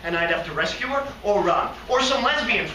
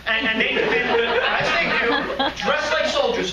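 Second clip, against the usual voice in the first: laughing; 6 semitones higher, 3 dB louder, slower than usual. Acted. Giggling through shooter daydream.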